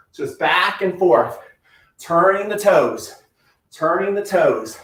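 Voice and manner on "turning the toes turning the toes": slow coaching cue. Shown as a demonstration. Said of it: "coaching a slow drill".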